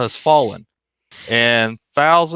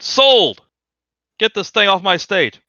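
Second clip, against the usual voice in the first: loud, high cry of sold; booming auctioneer, impatient; auctioneer shout; 6 semitones higher, 4 dB louder than usual. Acted. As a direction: slam the sale shut and bark orders.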